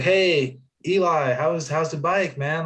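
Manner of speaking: a hint of the cheery boss checking in; friendly boss.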